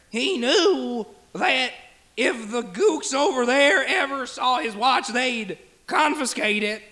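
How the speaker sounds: toned-down, slow impression; lightly done halting actor impression; Christopher Walken. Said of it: "Still Chris Walken?".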